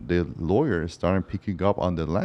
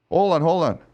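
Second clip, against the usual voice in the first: higher and louder, cutting in; urgent interruption; 9 semitones higher, 5 dB louder than usual. Retold or imitated. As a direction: stop the client mid-sentence. Lawyer interrupts the deposition.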